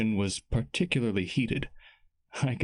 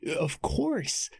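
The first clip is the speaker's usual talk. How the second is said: higher, quick eager answer; eager boy, a touch higher; eager reply; 7 semitones higher than usual. Acted. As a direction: jump at the chance.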